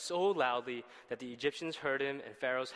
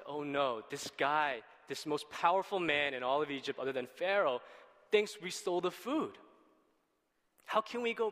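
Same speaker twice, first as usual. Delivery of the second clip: the brothers fretting, more and more worried; panicked brothers. Retold or imitated. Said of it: "And they say".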